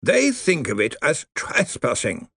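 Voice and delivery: put-on dry crackling old lawyer voice; grave undead lawyer, slow; crackly zombie lawyer. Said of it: "his voice crackled".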